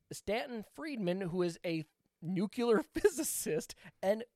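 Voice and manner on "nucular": "nuclear" mispronounced as nucular, K sound followed by "yuh"; nucular pronunciation. Real, not acted. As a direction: say "nuclear" as NOO-kyuh-ler. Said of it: "a nuclear physicist".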